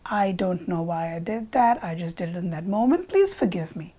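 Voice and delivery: mildly acted, subdued apology; apologetic.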